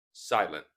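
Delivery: "silent" ending on N, final T dropped. Shown as a demonstration. Teacher models the word for learners, "silent" without its final T. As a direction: drop the T at the end of "silent". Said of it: "Silent T".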